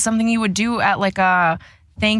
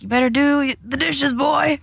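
lightly voiced mocking mom; a hint of a stern mother; 6 semitones higher than usual. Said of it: "a mom voice".

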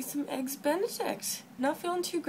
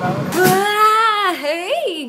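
shouted ah, high; big loud burst; loud cry; 4 semitones higher, 12 dB louder than usual. Real, not acted. Loud greeting exclamation.

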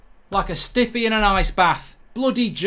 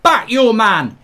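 excited cheering; slower than usual. Real, not acted. Fan cheering keeper on.

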